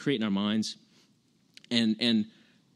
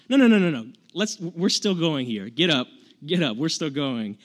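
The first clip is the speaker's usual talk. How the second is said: high, loud rallying God, getting him back up; urgent command; 4 semitones higher, 6 dB louder than usual. Retold or imitated. God urging fallen Job up, a loud rallying call. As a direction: push him to his feet, louder and higher.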